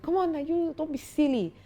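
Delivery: a hint of a stern father correcting a slouch; imitating stern father. Father scolding his young son about his walk, lightly mimicked stern voice. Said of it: "my father was like".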